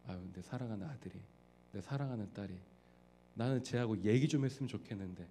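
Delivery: put-on soft, sighing parent longing for the child. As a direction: murmur it like a wistful parent. (아이와 대화하고 싶은 부모의 아쉬운 속삭임)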